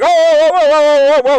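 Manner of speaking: very high, loud mocking wail; exaggerated high-pitched honking whoas; seal-like whoaing. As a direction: hoot like a startled seal. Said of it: "sounds like a fucking gay seal".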